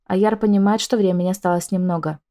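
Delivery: ordinary delivery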